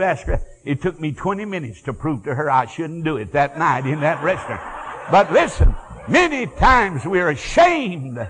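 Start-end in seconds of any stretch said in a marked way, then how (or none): 5.1-8.2 preaching. Acted. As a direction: hammer it home to the congregation. Preaching at full force.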